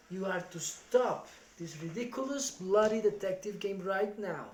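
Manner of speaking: angry father laying down the rules; stern scolding. Acted. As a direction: lay down the law to the boy. Father scolding his son.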